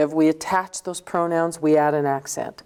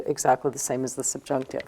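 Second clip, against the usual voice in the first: softer, quicker echo of the line; quiet fast repeat; 3 semitones lower, 6 dB quieter, faster than usual. Shown as a demonstration. Teacher quickly repeats the rule to students, softer and quicker. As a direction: drop your voice and repeat it fast to yourself. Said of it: "which is exactly the same as the subjunctive".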